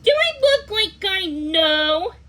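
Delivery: snappy rude retort; snapped. A narrator's reading. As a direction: bite back at her. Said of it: "the girl snapped".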